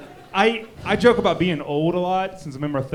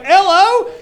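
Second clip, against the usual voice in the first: high, loud, unsure spelling-out of L O; a mock clueless kid spelling Louisiana aloud; 13 semitones higher, 8 dB louder than usual. Mocking bad spelling of Louisiana.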